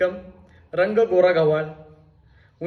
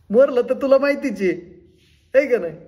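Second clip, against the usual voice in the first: threatening; 8 semitones higher, 6 dB louder than usual. Acted. Acted threat to debtor friend.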